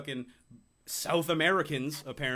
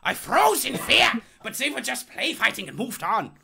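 put-on Bolivian accent; 9 semitones higher, 7 dB louder than usual. Reading quote in put-on voice.

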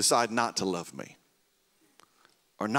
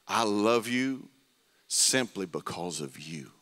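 tender voice of God; 2 semitones lower, slower than usual. Retold or imitated. The Lord speaking love over young Aaron, slow and tender. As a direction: speak it slowly like a gentle blessing. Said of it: "the Lord just spoke that over me".

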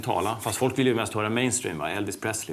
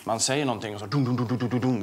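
echo imitation. Shown as a demonstration.

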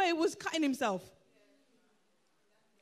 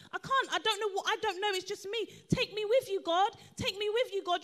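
higher-pitched, mock-desperate plea to Jesus; pleading prayer; 4 semitones higher than usual. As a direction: beg like an overwhelmed believer, half in fun.

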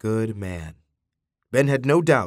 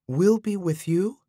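slow, higher, moved reassurance; emotional; 7 semitones higher than usual. A narrator's reading. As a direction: say it tenderly, moved. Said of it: "feeling emotional himself".

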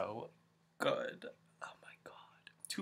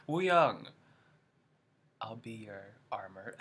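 loud swooning call to a singer; hammed-up fangirl plea; mock flirty fan call; corny fan line; 4 dB louder, slower than usual. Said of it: "corny singer jokes".

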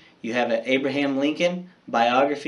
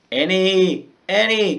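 higher, louder calling her name; 7 semitones higher, 6 dB louder, slower than usual. Acted. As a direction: call after his sister out the window. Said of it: "called Jack".

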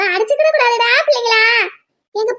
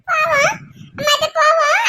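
tearful pleading; 4 semitones higher than usual. Acted. Crying children want to go home.

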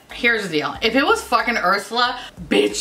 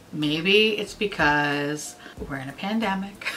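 wistful; 3 semitones lower, 4 dB quieter than usual. Real, not acted. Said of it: "I'm in my feelings".

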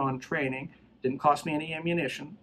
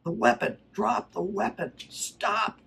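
high-pitched, mock shouted command; punchy acted commands, pitched up; verbal commands; 7 semitones higher, slower than usual. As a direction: re-enact ordering an armed man to stop. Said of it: "I'm giving him verbal commands".

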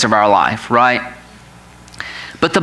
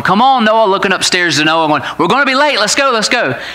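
impatient calling up; 4 semitones higher than usual. Retold or imitated. Teen daughter calling up the stairs.

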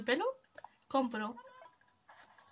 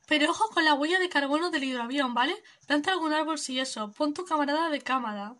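lightly voiced laid-back hippie, a bit higher; easygoing peace-and-love drifter; hippie traveller; 4 semitones higher, 6 dB louder than usual. Streamer voicing Fauno greeting the player, mellow hippie voice.

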